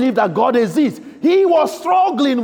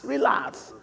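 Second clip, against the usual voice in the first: whispered relax; 9 semitones lower, 8 dB quieter than usual. Acted. Jesus whispering relax to scared disciples. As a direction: breathe the word relax out in a whisper. Softer repeat after relax.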